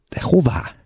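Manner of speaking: high-pitched but held-back cry; attempted cry. A narrator's reading. Gavrilescu resisting being led away, attempted cry. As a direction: try to call out without real volume. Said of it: "próbált Gavrilescu kiáltani".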